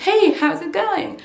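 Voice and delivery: high, drawn-out, exaggerated native English accent; hammed-up native accent, slow and high-pitched; show-off English accent. Shown as a demonstration. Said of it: "comme elle se la pète celle-là".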